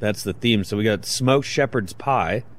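hushed golf announcer voice; golf commentator. Pretend. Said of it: "why are we using that voice today".

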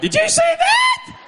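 hugely loud, high, drawn-out stage whisper; mock a whisper that comes out as a slow screech; failed whisper. Comic imitating wife at the mall commenting on a passerby, failed whisper. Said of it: "my wife can't whisper".

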